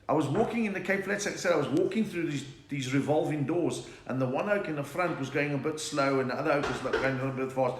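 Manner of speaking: South African Cape Flats accent. Shown as a demonstration. Comedian telling a revolving-door joke on request, Cape Flats accent. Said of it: "And a Cape Flats accent".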